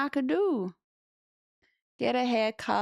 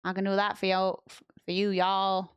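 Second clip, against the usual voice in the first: Southern American accent. Shown as a demonstration. Chatting to viewers in a light Southern American accent. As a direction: ease into a hint of Southern American twang. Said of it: "my Southern American accent for you".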